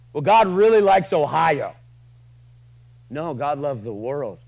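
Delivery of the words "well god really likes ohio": mock narrow claim. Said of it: "you don't get to go".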